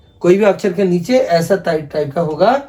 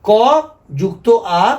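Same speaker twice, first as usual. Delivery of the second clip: slow spelled-out sound; much slower than usual. Shown as a demonstration. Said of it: "तो उच्चारण हो गया का".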